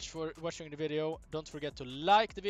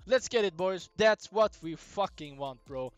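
frat bro; 2 semitones higher, 8 dB louder than usual. Real, not acted. Celebrating win with viewers.

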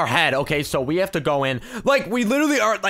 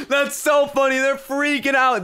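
high, giddy delight; gleeful and pitched right up; real amusement; 8 semitones higher, slower than usual. Real, not acted. Troller telling viewers they're freaking out, high giddy delight.

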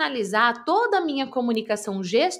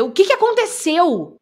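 high, loud alarmed asking; sudden startled demand; alarmed question; 7 semitones higher, 7 dB louder than usual. Shown as a demonstration. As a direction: blurt it out in alarm. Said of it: "Muda completamente a reação".

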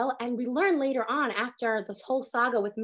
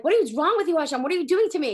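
upset complaint; 3 semitones higher, 5 dB louder than usual. Retold or imitated. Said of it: "you're like".

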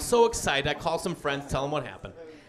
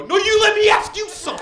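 high, louder mock retort; turning the tables; 12 semitones higher, 4 dB louder than usual. Prank caller firing back at the angry owner, high mock retort. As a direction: throw her line straight back at her.

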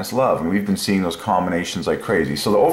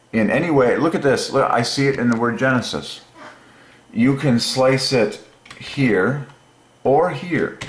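thrilled at the find, voice climbing; excited; 7 semitones higher than usual. Real, not acted. Showing viewers his discovery, excited and higher. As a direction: pitch jumps way up, eager and quick.

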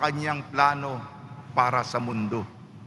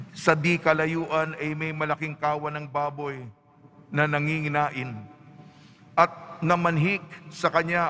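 measured scripture reading with deliberate pauses; Gospel reading. Acted. Priest proclaims the Gospel to the congregation, measured liturgical reading. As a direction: read the Gospel aloud to the congregation, phrase by phrase.

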